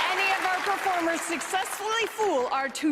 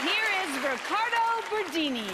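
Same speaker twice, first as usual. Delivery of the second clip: announcer. Acted. Host introduces the contestant.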